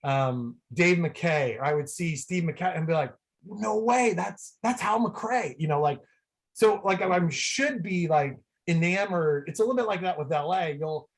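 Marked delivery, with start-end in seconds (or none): 3.5-5.5 starstruck fan. Retold or imitated. Acts out spotting an old player.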